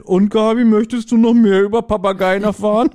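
high, robotic know-it-all; computer voice. Retold or imitated. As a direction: play Karl as a chirpy computer. Retelling Karl the computer's line.

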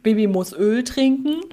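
a hint of a pompous American doctor. Podcaster quoting the American doctor from the episode, light American accent. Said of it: "das ist der Amerikaner".

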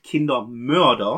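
"Kindermörder" set apart and drawn out; stretched, pointed stress on "Kindermörder"; emphasis on Kindermörder. Real, not acted. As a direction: lean deliberately on "Kindermörder". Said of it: "Ich betone direkt".

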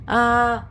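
sneezing. Real, not acted. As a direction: sneeze building up on ah. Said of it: "Oh nein, ich muss niesen".

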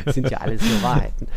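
laughing. Real, not acted. Laughs after joke.

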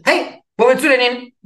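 high, loud retold yell; shouted after him. Zumba teacher shouts after the fleeing beginner, mock yell. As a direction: imitate her calling out after a runaway. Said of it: "Schrie die mir noch hinterher".

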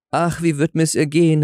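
a touch of worried wailing, understated; distressed cry. A narrator's reading. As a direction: call out in restrained dismay. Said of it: "rief sie".

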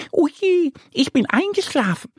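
high, startled little duck. Acted. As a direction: blurt it out, caught napping. Ente wacht erschrocken auf. (Annie merkt erschrocken, dass sie eingeschlafen ist)

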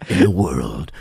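tiefe, dramatische Kinotrailer-Stimme; Trailerstimme. Pretend. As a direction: wie der Sprecher eines Hollywood-Trailers. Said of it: "mit der Trailerstimme". (tiefe Trailerstimme mit viel Pathos)

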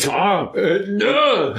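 laughing no. Retold or imitated. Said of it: "aber ich so".

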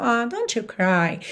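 slow, gentle comforting; tender consoling. Shown as a demonstration. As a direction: sad for a crying friend, tender. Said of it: "você tá ficando triste de ver a pessoa chorando".

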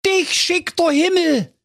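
high, overjoyed cry; delighted cry. A narrator's reading. Villagers greeting Schnitzelschorsch with a high overjoyed cry. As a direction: cry out in relief. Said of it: "riefen die Dorfbewohner".

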